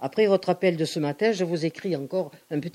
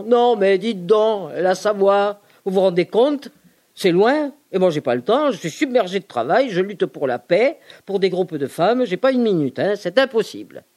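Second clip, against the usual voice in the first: emphatic refusal; 3 semitones higher, 4 dB louder than usual. Retold or imitated. Telling the monk on the phone it's too far, loud. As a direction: push back on him, loud and insistent.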